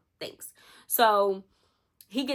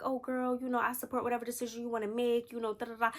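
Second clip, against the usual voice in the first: sweet mock support; 4 semitones higher, 4 dB quieter, faster than usual. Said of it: "you be telling her".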